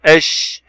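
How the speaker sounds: "إش" with a lingering sh; slow down on the sh of "إش"; doubled consonant. Shown as a demonstration. Teacher showing shadda like a speed bump, lingering sh in "إش". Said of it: "نهدئ كالمطبات".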